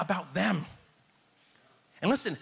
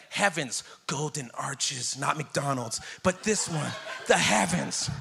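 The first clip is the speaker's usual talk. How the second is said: mock spiritual; 4 semitones lower, slower than usual. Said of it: "make it spiritual and be like".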